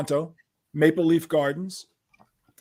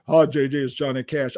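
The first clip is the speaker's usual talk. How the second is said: lightly imitated famous phone voice; a hint of the country star; 2 semitones lower than usual. Singer phoning the musician next morning, lightly imitated voice. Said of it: "that voice is like".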